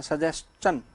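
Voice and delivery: सजेशन said slowly as sa-jes-chan; teacher models सजेशन with a clear jes-chan ending; pronunciation demo. Shown as a demonstration. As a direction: spell out सजेशन carefully, slow. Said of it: "सुन लीजिए इसका उच्चारण".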